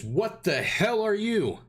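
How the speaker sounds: high-pitched startled outburst; startled shriek. Acted. Dwarf woman startled by an intruder at the amputation, shrieking. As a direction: blurt it out high, caught off guard. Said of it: "shrieks as well".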